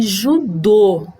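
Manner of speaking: "judô" slowly, stressed on a closed final O. Shown as a demonstration. Teacher giving a circumflex example, slow closed O in "judô". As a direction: draw out the narrow last O of "judô". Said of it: "o som é fechado".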